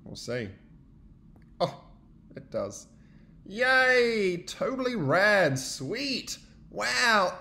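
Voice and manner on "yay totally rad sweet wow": cheering friends. Acted.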